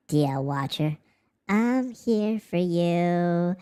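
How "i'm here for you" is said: slow plain. Shown as a demonstration.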